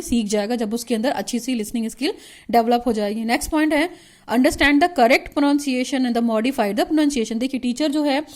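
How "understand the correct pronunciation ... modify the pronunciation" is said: reads the point out slowly, word by word; slow dictation. Shown as a demonstration. Teacher dictating a syllabus point to students, slow and measured.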